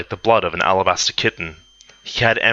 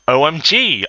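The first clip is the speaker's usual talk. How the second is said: high, loud mock-gushing; hammed-up high outburst; excited exclamation; 8 semitones higher, 5 dB louder than usual. A narrator's reading. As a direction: exclaim it like an overawed teen, pitched up. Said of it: "I said excretedly".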